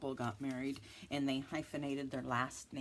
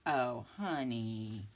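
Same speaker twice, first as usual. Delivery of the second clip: breaking into laughter while apologizing; real laughter over a silly name; laughing apology; 5 dB louder than usual. Real, not acted. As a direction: giggle through the sorry, half whispered. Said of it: "I shouldn't laugh".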